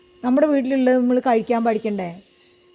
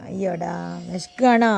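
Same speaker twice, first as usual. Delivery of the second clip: slow, lower tender coo; tender pity; 4 semitones lower, slower than usual. Real, not acted. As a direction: soothe a hungry pet gently. Pitying the hungry dog. (പതുക്കെ ലാളിക്കുന്ന സ്വരം)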